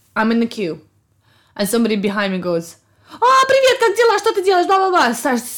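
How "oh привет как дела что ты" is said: very high, loud screaming in Russian. A stranger behind the speaker in a queue, retold as a loud Russian shout. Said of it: "Screaming really loud".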